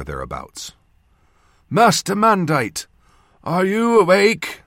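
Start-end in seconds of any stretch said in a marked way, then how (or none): 1.7-4.6 put-on loud, high old northern voice; old man's voice. A narrator's reading. Old surgeon checking on his patient, loud old voice. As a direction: call out as an old man rousing someone. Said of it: "the old voice said".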